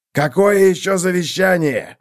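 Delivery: high, loud irritated howl; howling impatience. A narrator's reading. Hungry wolf howls at the horse, impatiently. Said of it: "взвыл волк".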